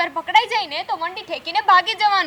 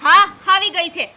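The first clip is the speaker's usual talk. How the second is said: defiant retort. Real, not acted. Daughter snaps back at mother.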